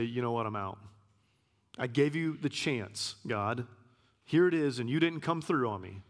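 imitating a fed-up believer quitting on God; mock frustration.

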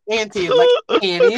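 "Auntie" ending in ee, like "Annie"; mispronounced name. Shown as a demonstration. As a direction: stress the wrong "Auntie", rhyming its end with Annie. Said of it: "it's not Annie".

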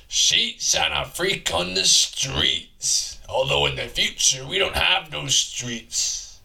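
loosely held raspy dude voice; a rough-voiced man from the future, lightly put on; manly, raspy character voice. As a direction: rant along as a raspy manly oddball. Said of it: "I'll do his voice as well".

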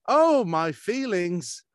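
hammed-up hurt cry, high and loud, slow; mock wounded wail. Telling friends he was recast, mock anguish. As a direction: overplay the hurt feelings. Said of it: "that really hurt my feelings".

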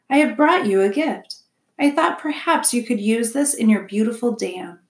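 a hint of a formal robot offering a gift; polite robot.

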